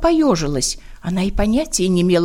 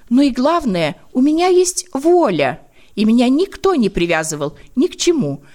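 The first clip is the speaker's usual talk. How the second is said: ladybug voice; 5 semitones higher than usual. Acted. Ladybug's earnest speech.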